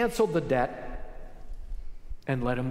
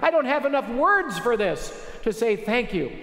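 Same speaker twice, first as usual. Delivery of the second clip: pitched up, pouring out thanks to the king; a forgiven servant overflowing with gratitude, voice raised high; grateful servant pleading; 6 semitones higher than usual. Acted. Servant thanks the king on his knees, high tearful gratitude. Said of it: "and look him in the face and say".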